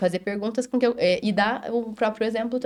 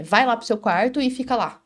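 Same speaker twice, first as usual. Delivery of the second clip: ordem severa; 3 semitones higher, 4 dB louder than usual. Retold or imitated. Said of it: "não é assim".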